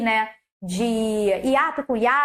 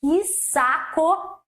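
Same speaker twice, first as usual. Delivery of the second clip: mock annoyance; 3 semitones higher, much slower than usual. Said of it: "torcer o nariz e falar".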